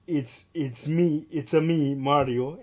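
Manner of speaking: slow, high mock Italian accent; hammed-up Italian accent on a famous catchphrase; Mario Italian accent. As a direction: do the classic Italian plumber accent, drawn out. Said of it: "in his classic Italian accent".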